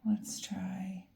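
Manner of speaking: soft unvoiced whisper to herself. Real, not acted. Reader whispering to herself over the cards. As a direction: whisper it while checking the cards.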